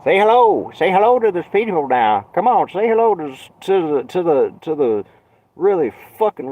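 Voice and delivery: high, loud hammed-up greeting; mock cheerful call. Streamer mocking himself to viewers, loud sing-song. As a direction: call out like hyping a crowd.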